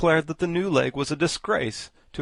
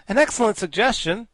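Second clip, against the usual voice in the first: approving; 10 semitones higher, 8 dB louder than usual. A narrator's reading. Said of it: "said the Woggle-Bug approvingly".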